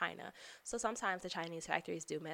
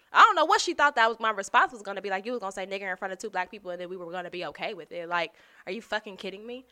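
outraged; 2 semitones higher, 9 dB louder, faster than usual. Retold or imitated. Telling off the coworker in front of black colleagues, loud outrage. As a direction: let her have it.

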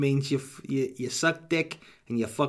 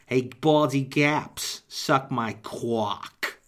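mobster taunt; slower than usual. Acted. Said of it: "I'd be like".

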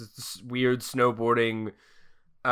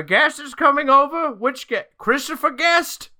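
higher, flustered questions; a frantic host voice; mock flustered butler; 12 semitones higher, 4 dB louder than usual. Butler panics over a coming guest, voiced high. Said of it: "he was like".

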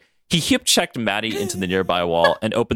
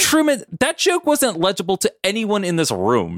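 laughing Maddie voice; 11 semitones higher than usual. Acted. Maddie mocks Truman's joke.

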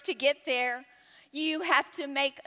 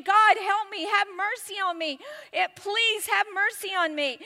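pleading cry, pitched up; 6 semitones higher than usual. Acted. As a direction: beg for mercy in a raised voice. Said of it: "He starts crying out".

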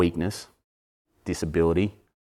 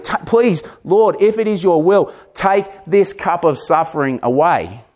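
humble pleading prayer; 9 semitones higher than usual. Retold or imitated. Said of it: "I think it would have".

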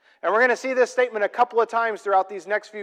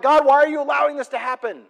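high, loud frustrated plea; yelling at God; 7 semitones higher, 6 dB louder, faster than usual. Acted. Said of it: "maybe you're even yelling at God".

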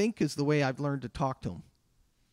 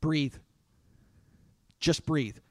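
soothing parent; 2 semitones lower, slower than usual. Retold or imitated. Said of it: "we tell our children".

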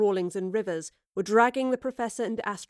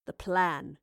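low, slow, quiet menace; cold villain; 3 semitones lower, 6 dB quieter, slower than usual. A narrator's reading. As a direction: close slowly with quiet finality. Villain's cold closing declaration.

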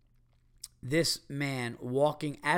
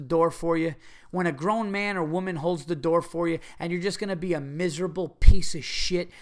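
imagined tirade; 3 semitones higher, 4 dB louder than usual. Pretend. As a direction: tear into the rude stranger. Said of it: "I wanted to find this guy and go".

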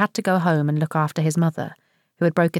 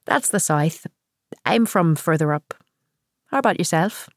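put-on Northern Irish accent. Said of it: "Northern Irish".

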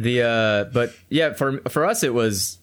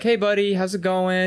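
calm and emotionless; 4 semitones higher than usual. Shown as a demonstration. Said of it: "you need to be very emotionless and calm".

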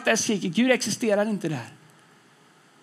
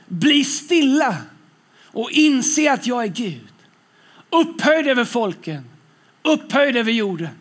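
slow, ringing declaration of the verse; projected scripture reading. Acted. Preacher reads the psalm to congregation, slow proclamation. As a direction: proclaim each phrase, pausing between them.

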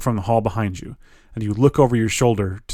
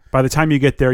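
normal talking voice

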